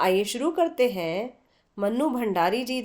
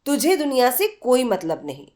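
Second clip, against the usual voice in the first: heated. Acted. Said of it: "Aruna आवेश में बोली".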